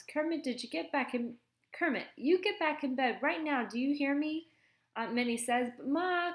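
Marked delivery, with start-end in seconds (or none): 0.0-4.5 higher-pitched motherly scolding; stern scolding. A narrator's reading. Aunt ordering Kermit back to bed, stern scolding. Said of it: "catches sight of the boy with the glasses and frowns". 5.8-6.3 put-on high, whiny child's protest; whining. A narrator's reading. Kermit protesting to his mother about bed, whining. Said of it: "Kermit whines".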